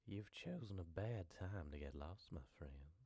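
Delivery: lightly creepy hillbilly; a hint of menace, trailing soft. Shown as a demonstration. Voice line for a lost traveller, mildly creepy. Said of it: "I need to make it sound creepier".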